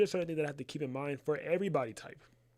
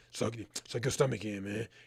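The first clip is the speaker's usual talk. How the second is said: harsh, blunt, overly hard delivery; 6 semitones lower than usual. Showing how not to tell a client to pose: too hard, harsh command. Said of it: "Don't say it like that".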